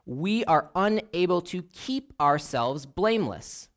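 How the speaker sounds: "we" hit first and firm; stress on we. Real, not acted. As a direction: lean on the word "we", then let the rest fall. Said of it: "and I stress the word we".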